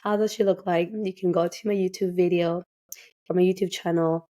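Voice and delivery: hoarse, raspy voice from a cold. Real, not acted. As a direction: talk through a raspy, hoarse throat. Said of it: "pardon me for my raspy voice".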